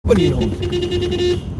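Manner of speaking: slow, high, stretched-out nobody knows; drawn-out high. Pretend. Teasing passers-by who know nothing, high and slow. Mock reply about flat earth debates.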